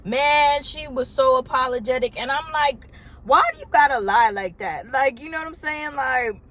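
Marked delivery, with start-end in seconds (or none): 3.2-4.9 exasperated confrontation. Retold or imitated. Confronting the stranger at her desk.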